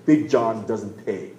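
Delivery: slow, heavy mock-tough voice; lightly voiced hulking tough guy; slow menacing giant. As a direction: drag out each word like a bully. Giant repeats line to driver.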